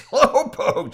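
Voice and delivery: mock-offended question; indignant disbelief. A narrator's reading. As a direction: throw the word back, affronted. Indignant echo of a teasing word.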